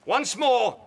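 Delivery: measured, grave sentence; stern prince. Acted.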